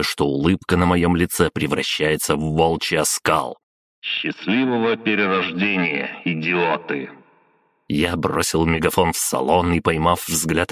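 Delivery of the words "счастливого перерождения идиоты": scornful farewell through a loudhailer; filtered mocking sign-off; megaphone. A narrator's reading. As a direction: send off the enemy over a megaphone. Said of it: "взял мегафон".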